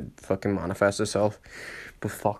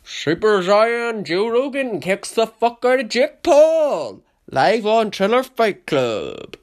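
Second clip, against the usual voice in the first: high, loud, slow ring announcer call; fight announcer; 11 semitones higher, 7 dB louder, slower than usual. Pretend. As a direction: boom it out like a fight night announcer.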